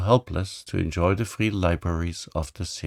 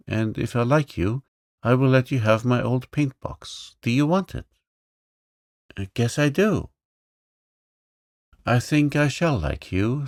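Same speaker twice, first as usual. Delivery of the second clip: put-on higher, eager little girl's voice; bold little girl; 4 semitones higher than usual. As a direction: play the lively young princess, pitched up. Girl's lines.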